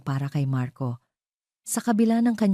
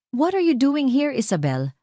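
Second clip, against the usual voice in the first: cold as ice; 10 semitones higher than usual. A narrator's reading. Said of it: "ang boses ay kasing lamig ng yelo".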